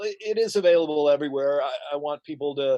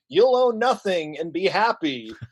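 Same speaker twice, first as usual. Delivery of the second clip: mock slogan; 3 semitones higher than usual. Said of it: "Or how about the World Economic Forum?".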